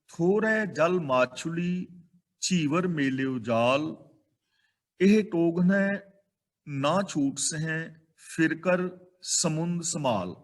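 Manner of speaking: slow, measured reciting of verse; scripture recitation. Acted. Preacher reciting Kabir's verse to the congregation, slow and measured. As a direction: intone each line of the shloka slowly.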